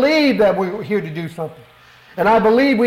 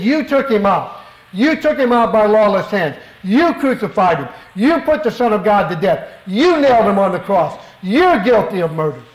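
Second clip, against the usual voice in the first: Peter accusing them, finger pointed; pointed preaching. Retold or imitated. Peter charging the crowd with murder, pointed and accusing. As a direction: press the guilt home like Peter. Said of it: "that's pretty pointed preaching".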